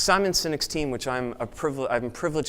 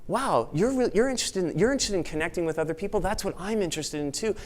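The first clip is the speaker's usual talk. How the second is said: excited discovery; 5 semitones higher than usual. Retold or imitated. Voicing an excited new acquaintance.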